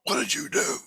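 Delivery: high-pitched mock alarm; put-on high, frantic questioning; Jesus. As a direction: imitate someone aghast in a squeaky high voice. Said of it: "Jesus going".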